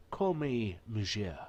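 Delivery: slow stately noble. Acted. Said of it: "What is that?".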